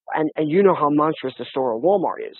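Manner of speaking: ordinary talk, nothing marked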